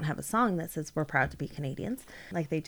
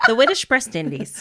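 laughing; 6 semitones higher, 7 dB louder than usual. Pretend. Mocking a tongue slip.

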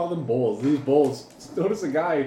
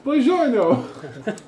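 high, slow Buongiorno; mock Italian greeting; 10 semitones higher, 4 dB louder, much slower than usual. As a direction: stretch it out like a hammy Italian.

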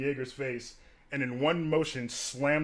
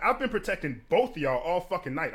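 higher, indignant self-defense; retold outburst; 5 semitones higher, 3 dB louder than usual. Bartender defending himself to both women, retold indignant outburst. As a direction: reenact an aggrieved protest. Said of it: "So after I click, click out on it".

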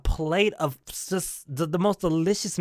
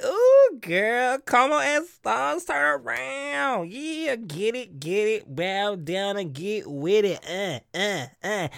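hyping friend; 3 semitones higher, much slower than usual. Retold or imitated. Host acting out friends' hype, playful drawn-out egging on. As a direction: start high, then groove down slowly. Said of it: "All my friends be liking".

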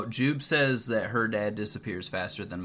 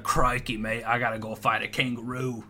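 bad Australian accent. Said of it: "I can't fucking do an Australian accent".

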